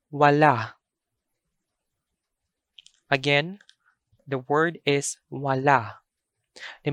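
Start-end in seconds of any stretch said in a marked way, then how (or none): 0.1-0.7 "wala" with a long first A and a normal, unstopped second A; long first vowel. Shown as a demonstration. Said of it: "a long vowel". 5.3-6.0 "wala" with the first A held long, the second normal; long first vowel. Shown as a demonstration. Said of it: "a long vowel".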